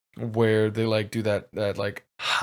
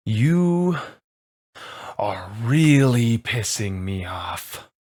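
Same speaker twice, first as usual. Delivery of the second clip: slow, menacing growl of annoyance; villain losing patience; npc anger; 3 dB louder, slower than usual. Acted. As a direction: lean into the threat, slow and heavy. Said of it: "He's like".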